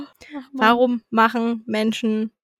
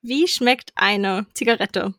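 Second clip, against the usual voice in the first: slow read-out question; 2 semitones lower, slower than usual. Shown as a demonstration. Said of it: "ich hab ja vorgelesen".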